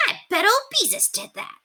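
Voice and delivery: put-on high, grumbling boy voice; Robert blaming Beezus; suspicious boy. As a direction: sure who the culprit is.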